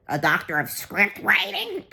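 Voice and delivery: slow, put-on hipster voice; sneering imitation of a cafe crowd; mocking hipsters. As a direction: drag it out as a mocking impression. Mocks hipster cafe customers' reply.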